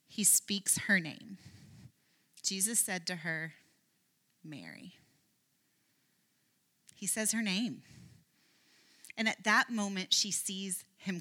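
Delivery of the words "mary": much softer and lower, barely there; a soft, intimate "Mary"; tender naming. Acted. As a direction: say her name gently, like a quiet call. Jesus speaks her name.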